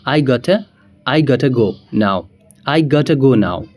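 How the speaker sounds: gotta said as ɡatə; relaxed native gotta. Shown as a demonstration. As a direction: blur got to into gotta. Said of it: "हम बोलेंगे".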